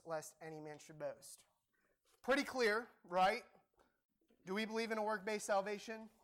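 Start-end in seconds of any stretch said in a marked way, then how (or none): 0.0-1.4 soft whispered end of the verse. Acted. Reading the verse aloud.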